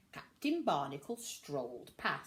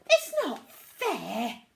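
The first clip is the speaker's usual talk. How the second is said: higher, louder, slow sulky complaint; Pete grumbling; 6 semitones higher, 8 dB louder, slower than usual. A narrator's reading. Pete complaining after the captain leaves, sulky grumble. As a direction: sulk it out. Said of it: "grumbled Pete".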